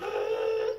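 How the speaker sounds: imitated gasp. Imitating sound as the tester is used.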